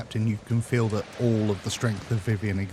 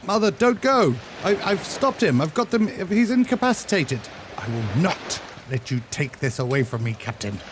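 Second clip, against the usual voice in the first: desperate plea; 3 semitones higher than usual. Acted. Son pleading with his mother not to leave, desperate higher call. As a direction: call out before she vanishes.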